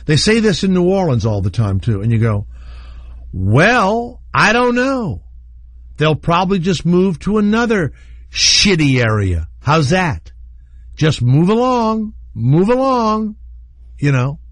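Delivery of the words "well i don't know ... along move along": high, drawn-out mocking brush-off; mock dismissive shrug. To critics of the poor, a mock shrugging brush-off. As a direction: wave them off like it's no big deal.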